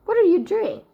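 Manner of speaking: a high, loud outraged demand; a centaur thundering his outrage. A narrator's reading. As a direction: roar it at him like an angry centaur. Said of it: "Ben thundered".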